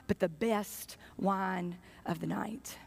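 slow whispered reveal; hushed reveal. Real, not acted. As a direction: whisper the payoff, slow and low. Punchline dropped to a whisper.

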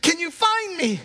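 high-pitched acted plea to heaven; acted prayer. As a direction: imitate someone praying to God for help. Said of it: "she's probably praying".

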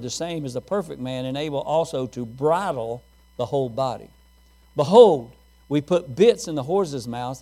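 measured King James reading to the church; scripture reading. Acted. Pastor reading James to the congregation, measured and solemn. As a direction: read the verses with weight.

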